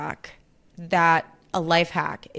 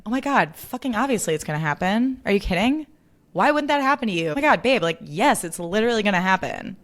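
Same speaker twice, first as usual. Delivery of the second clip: excited reassurance. Acted. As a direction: gush that of course it will happen. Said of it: "say your line and action".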